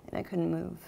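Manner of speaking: very soft, near-whispered confession; stunned. Acted. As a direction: trail into hushed shock with long pauses. Stunned confession after the smothering.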